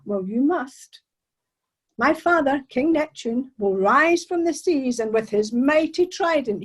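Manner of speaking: a captured mermaid threatening, slow and grand; lightly voiced mermaid, slow and ominous. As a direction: warn him of her father's wrath, slowly.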